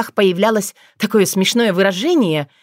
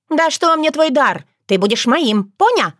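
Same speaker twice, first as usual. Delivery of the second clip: much higher, cut off mid-word; scornful vixen; 7 semitones higher than usual. A narrator's reading. Liusa scornfully insists Leland will be hers. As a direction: brush off his gift. Liusa dismisses his gift.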